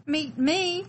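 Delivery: startled echo. Acted. Hidden little one hearing someone wants to meet them, startled. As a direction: repeat it as if you can't believe it.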